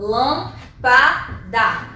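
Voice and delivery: lâmpada stretched very slowly with a little laugh; teacher slowly sounding out lâmpada; drawn out example. Shown as a demonstration. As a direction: drag out lâmpada to show its syllables. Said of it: "Então, ó".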